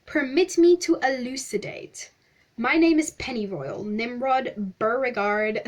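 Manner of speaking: mildly hammed-up, flattering explorer; lightly voiced pompous stranger. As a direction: play the effusive stranger, lightly. Pennyroyal character voice.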